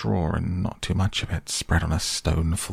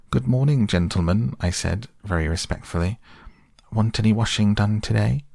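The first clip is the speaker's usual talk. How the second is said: washerwoman voice; 4 semitones higher than usual. Retold or imitated. Mole imitating washerwoman.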